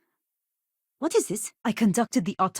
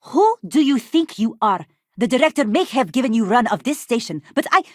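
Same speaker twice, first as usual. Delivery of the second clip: rising angry confrontation, louder; indignant anger; 5 dB louder than usual. Acted. Doctor confronting intruder about her quarters, rising anger. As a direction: demand an answer, outraged.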